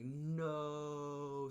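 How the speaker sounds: a crowd's dismayed no; shouted no. Retold or imitated. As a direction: shout it in shocked protest. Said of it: "we were just like".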